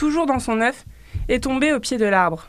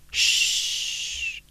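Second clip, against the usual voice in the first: soft whispered shush; hushing; 6 dB quieter than usual. Acted. Reader hushes the children over the sleeping fox in a whisper. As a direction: hush so the sleeping fox stays asleep.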